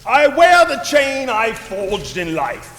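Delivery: lightly rasped solemn ghost; grave, mournful spirit warning; raspy ghost voice. Acted. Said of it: "this raspy voice".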